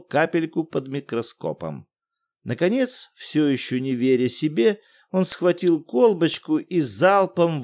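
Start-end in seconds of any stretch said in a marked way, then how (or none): none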